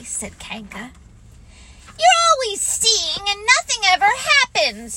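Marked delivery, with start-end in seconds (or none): 2.0-4.9 put-on high, loud childish lament; plaintive little one's wail; sad. A narrator's reading. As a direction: complain sadly like a disappointed child. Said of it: "said Roo sadly".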